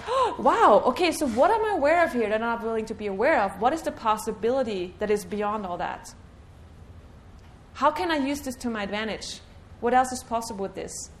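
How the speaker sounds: lifted, open, eager delight; a cheerful wow of discovery; bright curious wonder. Shown as a demonstration. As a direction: sound pleasantly surprised and curious. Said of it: "Notice how this shifts the energy".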